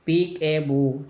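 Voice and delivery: put-on drawn-out peekaboo call to a baby; playful peekaboo. Shown as a demonstration. Teacher to students, demoing the baby's game, slow and playful. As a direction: say it slowly like playing with a baby. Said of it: "लुका छुपी का game".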